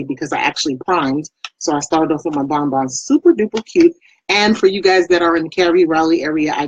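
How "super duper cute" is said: high, bright-eyed gush over the gloss. Real, not acted. Vlogger to viewers, gushing over her lipstick. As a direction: squeal it like you love it.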